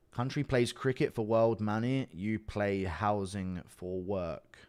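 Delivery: "you play housing for work" drawn out very slowly; slow rereading. Real, not acted. Rereads the puzzling message slowly.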